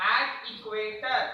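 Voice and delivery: very slow, every word drawn out; slow motion. Shown as a demonstration. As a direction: spell it out slowly for students. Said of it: "देखो slow motion में बोलेंगे".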